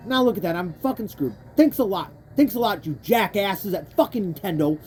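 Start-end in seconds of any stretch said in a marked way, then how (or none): 2.4-4.8 angry rant. Real, not acted. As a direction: scold the developers hotly. Ranting at Nintendo's AI.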